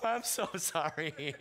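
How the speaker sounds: slow, sobbing apology; mock weeping. Remorseful hunter apologises to dying deer, mock weeping. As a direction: dissolve into hammed-up sobs. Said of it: "then I felt so bad".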